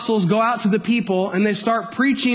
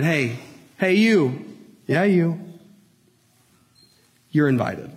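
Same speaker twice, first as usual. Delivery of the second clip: lower, softened personal call; gentle invitation; 4 semitones lower than usual. Acted. Preacher voicing Christ's invitation to each listener, gentle.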